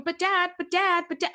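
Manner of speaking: put-on child begging dad to listen, whiny; mock whiny child. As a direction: nag a busy parent. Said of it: "over and over again".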